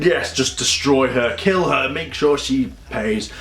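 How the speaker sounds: slow, lightly voiced villain; villain's command. Villain ordering his controlled Ranger to attack, slow mock menace.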